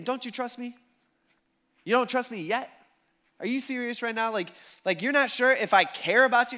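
high-pitched, disbelieving questions; incredulous challenge. Retold or imitated. Jesus to disciples who doubt him, incredulous. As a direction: question them as if you can't believe it.

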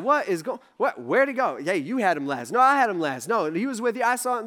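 lightly acted squabble among several guards; bickering blame. Guards finding Peter gone, mildly acted bickering. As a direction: toss the blame back and forth. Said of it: "They're all blaming each other and stuff".

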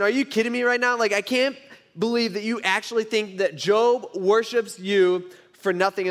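mock-outraged Satan; acted incredulity. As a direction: challenge God as if you can't believe it. Acts Satan scoffing at God.

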